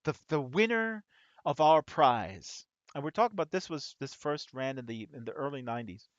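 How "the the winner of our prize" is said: hammed-up radio host, higher and louder; mock game-show host calling a winner. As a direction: announce it like a cheesy radio DJ. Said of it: "the radio host says".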